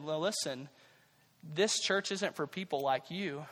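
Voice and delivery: low, soft, slow turning-away; quiet rebuff. Acted. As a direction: turn them away quietly and deliberately. Usher turns Gandhi away at door.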